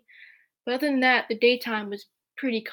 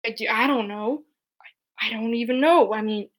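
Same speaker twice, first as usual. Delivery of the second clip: whispered; 4 dB louder than usual. Real, not acted. Sudden whisper.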